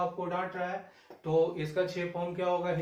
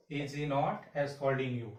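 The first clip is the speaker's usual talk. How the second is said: slow dictation; 2 semitones lower, much slower than usual. Shown as a demonstration. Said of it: "teacher dictates the sentence".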